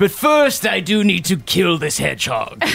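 smug villain, casually menacing. Acted. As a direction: sneer it like a gleeful bad guy. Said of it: "he looks at you and goes".

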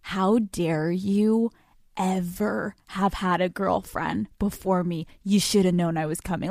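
slow, drawn-out mock outrage as a jealous girlfriend; joking crazy girlfriend. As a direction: ham up a possessive girlfriend, slowly. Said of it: "Like, I joke sometimes".

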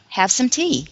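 rushed model phrase; quick demo of the phrase; too fast. Shown as a demonstration. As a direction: say it a little quick. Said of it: "Okay, that was too fast".

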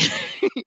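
a quick airy giggle; soft breathy giggle. Real, not acted. Laughing about seeing a dog's face in her coffee, soft giggle. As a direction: giggle softly at the memory.

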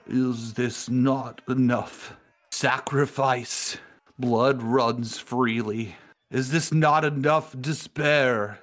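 slow, rising desperate plea; dying sorcerer's lament. Acted. Impaled Lucifer pleads to his dark patron, slow and rising. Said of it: "and Lucifer speaks".

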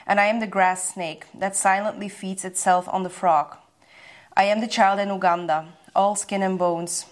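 measured, even reading of an English poem; poem recitation. Acted. Podcast guest reciting a favourite poem to her host, measured and even. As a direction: recite it like a poem at an art expo.

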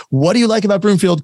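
demonstrated question intonation on "What do you like about Broomfield?"; question tune. Shown as a demonstration. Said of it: "your voice typically goes up at the end".

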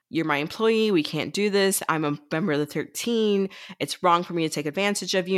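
mock-earnest protest, lightly acted; good-guy spiel. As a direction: recite a good boy's principled objections. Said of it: "goes on his good boy, good guy spiel".

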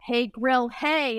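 lightly acted catchphrase greeting; retold greeting. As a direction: try the phrase out playfully. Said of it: "I was like".

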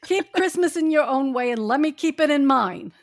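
a lightly voiced cranky miser; grumpy miser Scrooge. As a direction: sneer at the holiday like a bitter old skinflint. Scrooge's lines in group reading.

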